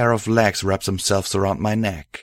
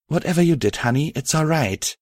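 softly; 7 semitones higher, faster than usual. Acted. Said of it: "my love replied softly".

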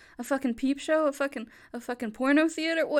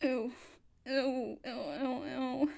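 tearful disgust; 2 semitones lower, 5 dB quieter, much slower than usual. Acted. Disgusted, close to tears.

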